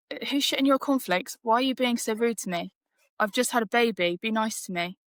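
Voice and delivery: hurt and indignant, push back at him; indignant retort. Retold or imitated. New mum retelling snapping back at rude doctor, indignant. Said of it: "And I was just like".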